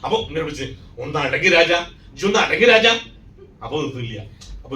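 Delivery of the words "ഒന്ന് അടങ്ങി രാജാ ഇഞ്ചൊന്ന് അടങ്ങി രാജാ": rising to a loud, high shout of Raja; father at the fair shouting down his crying boy, building to a yell; exasperated call. Retold or imitated. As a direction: snap it louder the second time. Father scolding his crying son.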